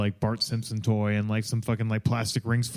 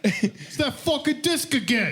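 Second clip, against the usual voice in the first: high, laughing country hick; hammed-up yokel outrage, slow; fed-up redneck shouting at the sky; hick yelling; 12 semitones higher, slower than usual. Joins the yokel bit.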